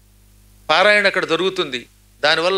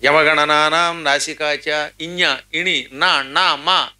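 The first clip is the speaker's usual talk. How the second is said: slow, chanted grammar rule; sutra recitation; much slower than usual. Shown as a demonstration. Teacher reciting a Sanskrit grammar rule, chanted slowly. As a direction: intone the Panini sutra slowly. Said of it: "ముక్కుతో పలుకుతాం".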